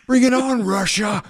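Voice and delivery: high-pitched playful challenge; mock defiant taunt. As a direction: call out a hammed-up dare to the hackers. Mock taunt at imagined hackers.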